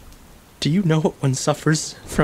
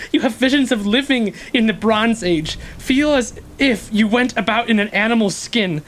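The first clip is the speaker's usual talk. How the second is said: bitter rising outcry; 6 semitones higher than usual. Acted. Describing prison degradation bitterly.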